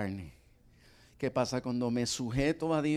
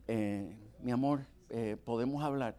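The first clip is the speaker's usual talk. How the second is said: hesitant rehearsal; 4 semitones lower, 7 dB quieter than usual. Shown as a demonstration. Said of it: "me quedó mejor".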